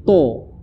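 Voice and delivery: "to" with a fully rounded O; overweighted "to"; too heavy ta. Shown as a demonstration. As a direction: say "to" over-thick, losing the A. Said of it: "terlalu berat".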